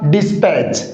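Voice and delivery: "डिस्पैच" said alone as the model, falling at the end; correct pronunciation. Shown as a demonstration. Teacher giving students the right pronunciation of dispatch, careful model pronunciation. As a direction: model "डिस्पैच" as a lone word, pitch dropping. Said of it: "क्या होगा इसका pronunciation".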